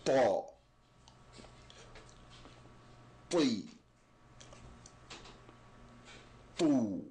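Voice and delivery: Ta, Tu thick and unvoiced, cheeks puffed; ta drill. Shown as a demonstration. Teacher drilling the thick ta. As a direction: silent build-up, then a thick ta. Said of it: "we don't use our voices".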